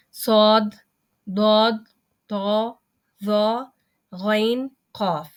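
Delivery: صاد ضاد طا ظا غین قاف said full-mouthed and heavy; heavy letters. Shown as a demonstration. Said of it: "موٹا ادا کرنے کا مطلب". (موٹا ادا کرنا، بھاری حروف)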